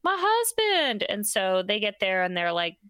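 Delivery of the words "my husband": high hammed-up grief, slowing on my husband; fake distraught wife. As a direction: ham up a wife faking shock to the police. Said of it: "calls the police and is like".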